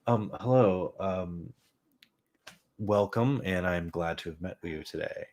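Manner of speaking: a lightly voiced dog greeting them like a businessman; dry, formal hello from the dog, barely changed from his own voice; dog as a polite businessman at a meeting, voiced lightly; businesslike dog voice. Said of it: "like a man coming to a business meeting".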